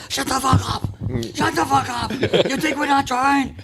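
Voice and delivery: high, yelled put-on player voice; imitated angry yell. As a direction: bark it out like a fed-up player on the bench. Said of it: "Jake would be like".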